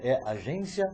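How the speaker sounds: imitating an Italian accent on "agência". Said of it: "eu tô imitando o sotaque que ele fez". (imitando sotaque italiano)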